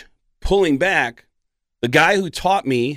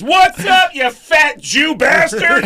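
high, loud, drawn-out jeer; loud mock insult; 6 dB louder, slower than usual. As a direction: bellow a friendly insult. Friend's rude greeting retold.

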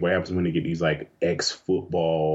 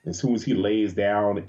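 ordinary talk

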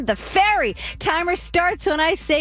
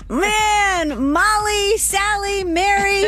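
excited; 7 semitones higher, much slower than usual. Real, not acted. Host helps with answers excitedly.

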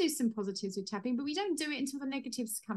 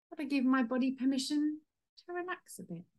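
gentle soothing phrase; 3 semitones higher than usual. Shown as a demonstration. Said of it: "tapping script".

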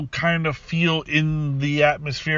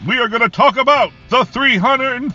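booming ring announcer, building to a roar; WWE announcer voice; 10 semitones higher, 6 dB louder than usual. Pretend. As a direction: hype it up like a wrestling ring announcer. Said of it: "I'm gonna do my W W E announcer voice".

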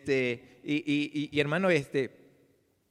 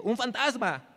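higher-pitched, mildly alarmed exclamation; frightened cry; 7 semitones higher, slower than usual. A narrator's reading. Disciples seeing Jesus walk on the sea, frightened cry. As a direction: read it as a startled cry, pitch raised. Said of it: "y dieron voces de miedo".

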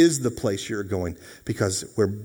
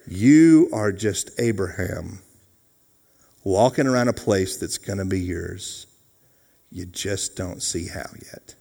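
calm reassurance. Acted. God answering a panicked believer's rant, calm reassurance.

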